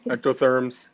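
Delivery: booming circus ringmaster call. Acted. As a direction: announce it like a ringmaster. Circus-style announcement.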